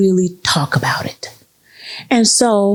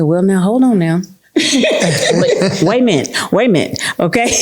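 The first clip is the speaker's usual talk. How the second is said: laughing protest. Retold or imitated.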